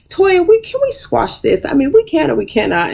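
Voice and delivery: high squeaky mock Quad voice; Quad impression. Retelling Quad asking Toya to make peace, in a high mock voice. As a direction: pitch way up to play Quad. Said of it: "Quad goes".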